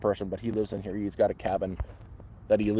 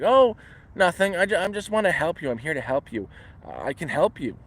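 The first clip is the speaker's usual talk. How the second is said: mock Spanish accent; 6 semitones higher than usual. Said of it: "he did, like, a Spanish accent".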